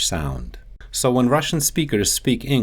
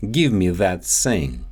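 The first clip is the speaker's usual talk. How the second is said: Russian accent, only "thing" said as "sing"; Russian accent, keep "that" and turn "thing" into "sing"; 3 semitones lower than usual. Shown as a demonstration. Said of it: "substitute one of the T H sounds".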